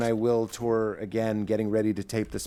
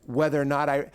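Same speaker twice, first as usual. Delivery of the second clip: cocky confident voice; slower than usual. Acted. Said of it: "this is the real voice of my confidence".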